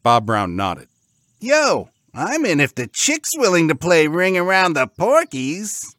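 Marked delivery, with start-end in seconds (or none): 1.4-5.9 high, loud pig bro; squeaky, game-for-it piglet; eager pig. Acted. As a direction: pipe up keenly as a cartoon pig. Pig figure accepts the deal.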